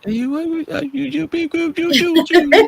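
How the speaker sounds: put-on very high squeaky baby talk. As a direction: coo at a toddler in a high baby voice. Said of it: "that little baby voice that y'all be doing".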